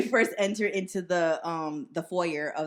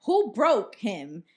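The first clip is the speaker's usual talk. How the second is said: slow, louder interrogation; stern demand; 3 semitones higher, 6 dB louder, much slower than usual. Retold or imitated. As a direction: mom demanding who did it. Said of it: "she's like".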